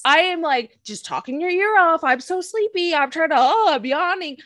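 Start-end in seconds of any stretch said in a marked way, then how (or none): 2.0-4.4 higher, breathy-coy mock sleepy. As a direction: play fake tired to seem cute. Parodying fake tired flirting.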